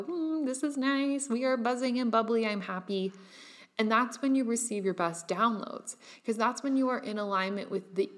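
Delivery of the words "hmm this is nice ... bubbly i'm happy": happy vibration. Pretend. Personifying her own vibration to viewers, cooing contentment. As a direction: voice your vibration as a blissful little being. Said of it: "making your vibration go".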